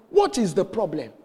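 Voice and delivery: lightly urgent, firmly put question; retold startled question. Asking the crying woman at the door, mild retold alarm.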